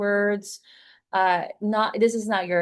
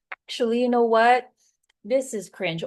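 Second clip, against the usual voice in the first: dry, let-down verdict; unimpressed; 3 semitones higher than usual. Shown as a demonstration. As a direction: judge your own take as cringe. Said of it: "figure out".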